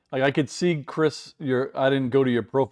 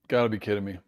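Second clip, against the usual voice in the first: talking through hiccups; words broken by hiccups; 3 semitones lower, much faster than usual. Real, not acted. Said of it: "Now I have the hiccups".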